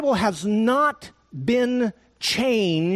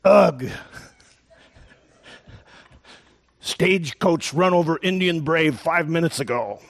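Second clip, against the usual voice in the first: stereotyped Indian brave. Retold or imitated. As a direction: deliver the punchline deadpan. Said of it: "And the Indian says".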